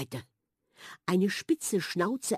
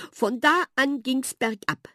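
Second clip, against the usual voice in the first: mouse calling out; 7 semitones higher, 3 dB louder than usual. A narrator's reading. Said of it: "rief Miller".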